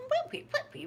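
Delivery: very high, incredulous questioning; avid curiosity. Retold or imitated. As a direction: mock-desperate to hear the detail. Daughter's story prompts urgent questions.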